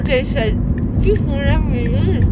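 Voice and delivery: mumbling around gauze pad; speaking through packed mouth; talking with gauze in mouth. Real, not acted. Seen 3: White gauze held between lips throughout all car frames.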